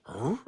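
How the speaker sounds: short questioning grunt with a sharp upward swoop; startled goat noise. Retold or imitated. Telling how the goat spooked at the hat, startled imitation. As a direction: imitate a spooked animal's "huh?". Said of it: "that's when he, like, goes".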